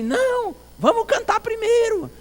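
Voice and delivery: put-on very high, loud old man protest; old deaf pastor. Old pastor stopping his visitor from leaving, high loud voice. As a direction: cry out eagerly in a high old man's voice. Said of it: "ele disse assim".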